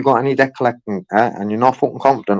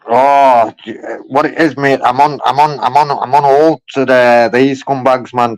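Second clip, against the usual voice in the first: excited; 3 semitones higher, 5 dB louder than usual. Real, not acted. Excited about scam call.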